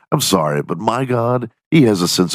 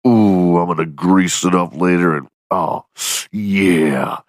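a hint of a smug gym bro drooling over his arm; mocking gym bro; 3 semitones lower than usual. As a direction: coo at your own bicep like a vain lifter.

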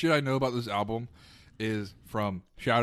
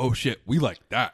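mock delighted crew; 6 dB louder than usual. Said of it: "And they're like".

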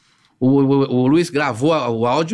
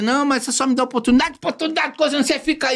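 raised-pitch imitation of the boss; boss's voice; 9 semitones higher than usual. Retelling the boss's offer, voice raised.

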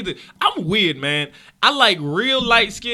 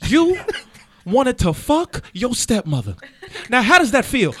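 Jamie Foxx impression; 4 semitones higher than usual. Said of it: "I say it like Jamie Foxx".

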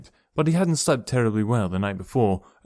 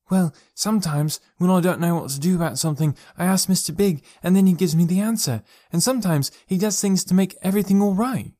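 put-on higher, earnest little boy voice; young boy; 8 semitones higher than usual. Boy explains his invisible friend to his parents, in a higher childlike voice. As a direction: speak up like an eager small child.

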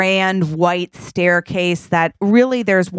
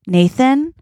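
high, lilting questioning call; Kim; 6 semitones higher than usual. Acted. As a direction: call the name high, rising at the end. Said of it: "then Kim's like".

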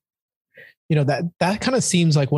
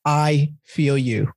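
empathetic; much slower than usual. Shown as a demonstration. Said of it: "take that extra step into discomfort and say".

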